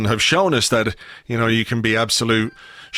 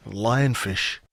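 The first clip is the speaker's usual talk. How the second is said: ordinary delivery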